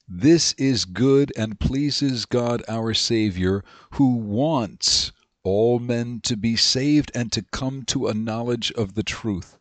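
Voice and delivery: slow, measured reading of a Bible verse; scripture reading. Acted. Teacher reading scripture to the class, slow and measured. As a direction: read the verse slowly and deliberately. Reads First Timothy aloud.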